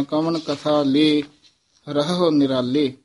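ਕਵਣ ਕਥਾ ਲੇ, then a pause before ਰਹੋ ਨਿਰਾਲੇ; pause after ਲੇ. Shown as a demonstration. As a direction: stop on ਲੇ. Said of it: "ਲੇ ਪਦ ਤੇ ਵਿਸਰਾਮ ਹੈ". (ਲੇ ਤੇ ਵਿਸਰਾਮ)

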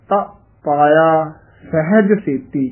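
ਸਹਿਜ with the h clearly sounded. Shown as a demonstration. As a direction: say ਸਹਿਜ with a full h. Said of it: "ਹਾਹਾ ਉਚਾਰਨ ਕਰਨਾ ਹੈ". (ਸਹਿਜ ਵਿੱਚ ਹਾਹਾ ਸਾਫ਼)

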